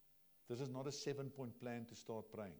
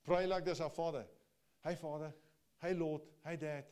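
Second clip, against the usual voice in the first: loud ringing call, pitched up; preaching loudly; 4 semitones higher, 7 dB louder than usual. Acted. Preacher repeating the prayer's opening to the church, loud. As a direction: call it out with fervour.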